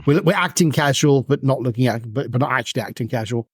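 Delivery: mock-innocent little kid, lightly voiced; kid acting casual. GM voicing kids pretending to be casual, lightly playful. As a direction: play it like a guilty kid pretending nothing's up. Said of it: "You do that thing that, that little kids do".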